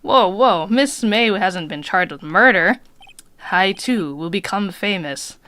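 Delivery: bellboy in a hammed-up French accent, slow and loud; a grand French hotel bellboy drawling his pride. Bellboy bragging to the lawyer in a French accent. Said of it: "I'll give him French accent".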